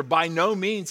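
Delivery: by no means punched with emphasis; emphatic quote. Acted. Paul's answer read with pulpit-pounding emphasis. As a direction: pound it like an exclamation point. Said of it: "with an exclamation point".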